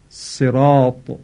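صراط with heavy emphatic ṣād and ṭāʾ, drawn out slowly; correct Arabic emphatic. Shown as a demonstration. Teacher showing the prayer word صراط said slowly with heavy emphatics. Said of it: "طاء مؤلف هست که باید درشت تلفظ".

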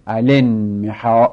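الانمحا slowly, hamza elided, alanmaha; الانمحا linked as alanmaha, said slowly; correct pronunciation. Shown as a demonstration. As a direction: draw out الانمحا with no glottal stop. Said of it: "همزه هم میفته".

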